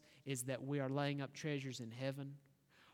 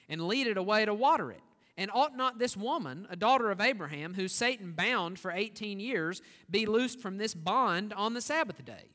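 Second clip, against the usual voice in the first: forceful rebuke; 2 semitones higher, 5 dB louder than usual. Acted. Jesus rebukes the synagogue ruler.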